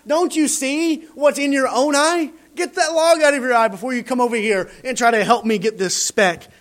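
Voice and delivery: high, loud disbelief at a hypocrite; what are you talking about, man; mock outraged comeback; incredulous retort. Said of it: "we would look at him and be like".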